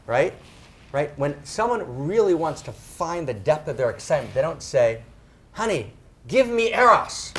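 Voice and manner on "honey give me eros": raised, louder mock plea to a lover; hammed-up pleading, pitched up; mock lover's plea. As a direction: beg your honey in mock passion. Acting out an unlikely bedroom plea.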